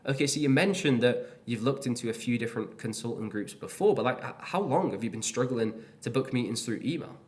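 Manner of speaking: "email?" lifting up at the end of the question; upward question tone. Shown as a demonstration. Coach demoing a discovery question, finishing on an upward turn. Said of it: "I finish on an upward turn".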